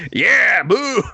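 high, loud crowd heckle; mock jeering. Playing people who hate sports, mock jeering. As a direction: boo like a rowdy crowd.

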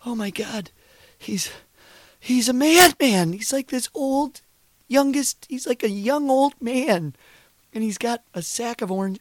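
high-pitched flustered character voice; apologetic cartoon character, flustered. Improvised sketch apology to Charlie Brown, high flustered voice. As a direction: pitch it way up, start loud then ease off.

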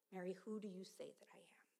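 whispered question, unvoiced; a hushed whisper of the question. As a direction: breathe the question softly. Jesus asking, hushed.

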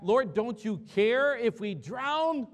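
high, loud, slow cry of fear. Retold or imitated. Disciples crying out to sleeping Jesus in the boat, loud and slow. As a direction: call out over the storm. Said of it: "they cry out".

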